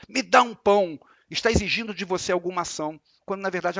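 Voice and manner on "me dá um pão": demanding. Shown as a demonstration. Teacher acting out an arrogant demand. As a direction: say it like you expect to be obeyed. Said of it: "obrigando você a dar um pão".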